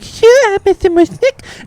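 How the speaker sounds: very high, thin Audrey voice; husband teasing wife in Audrey voice. Pretend. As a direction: answer like Audrey would. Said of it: "I'll be like".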